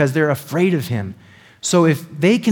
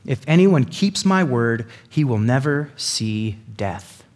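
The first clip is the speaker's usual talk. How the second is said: measured, weighty pronouncement slowing to the end; solemn declaration; slower than usual. Acted. Jesus making a promise to his accusers, solemn. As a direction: declare it gravely, stretching the last words.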